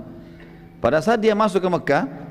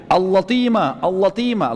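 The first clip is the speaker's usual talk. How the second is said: calling out; 3 semitones higher, slower than usual. Retold or imitated. Damdam crying out in Mecca.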